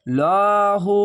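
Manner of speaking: লাহু with a full, heavy লা; heavy Allah. Shown as a demonstration. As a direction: make লাহু heavy and round. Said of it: "আল্লাহ লেখাটি মোটা করা হবে". (লাহু মোটা করে)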